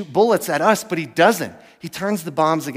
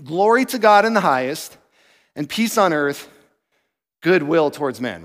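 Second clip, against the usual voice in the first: usual reading. Shown as a demonstration. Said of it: "it's usually read like this".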